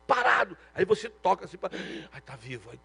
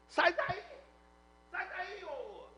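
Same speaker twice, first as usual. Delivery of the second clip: jeering thief; 11 semitones higher, 9 dB quieter, much slower than usual. Retold or imitated. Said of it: "um falou assim".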